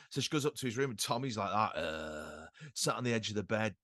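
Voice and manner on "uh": low, soft mock groan; imitated hungover groan. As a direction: groan as if wrecked by last night. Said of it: "just hung over to death".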